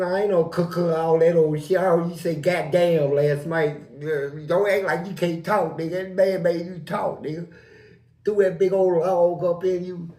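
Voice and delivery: somewhat loud, pressing challenge; retold confrontation. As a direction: call him out on it, acting the exchange. Retold confrontation next day.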